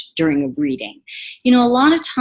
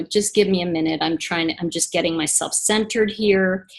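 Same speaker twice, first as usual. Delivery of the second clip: calm request; 3 semitones lower than usual. Shown as a demonstration. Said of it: "And I might say to you".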